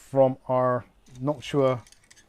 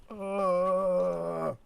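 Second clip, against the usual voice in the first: wincing hiss through teeth; 6 semitones higher than usual. Shown as a demonstration. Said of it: "the sort of thing I do when I'm recording videos".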